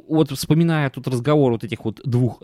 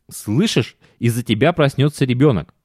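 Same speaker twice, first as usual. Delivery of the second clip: whiny wife voice. Acted. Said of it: "аргументы, которые она приводила".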